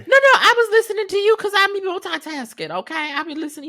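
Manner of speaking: high laughing defense; laughing protest. Real, not acted. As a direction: laugh it off while insisting.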